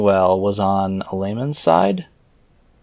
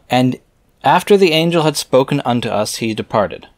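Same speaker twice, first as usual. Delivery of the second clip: raised, measured reading voice; scripture reading; 4 semitones higher, 3 dB louder than usual. Acted. Reader reciting scripture verses aloud in a solemn reading voice. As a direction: read the old verses out with solemn weight.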